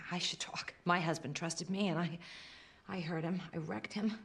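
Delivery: sigh, then confess it softly, voice dropping; regretful confession. Acted. Woman confessing she hurt her husband, regretful.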